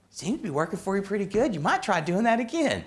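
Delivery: high, with a laugh breaking in; deadpan it, then crack up; amused advice. Retold or imitated. Old mentor teasing the student with obvious advice, high amused voice.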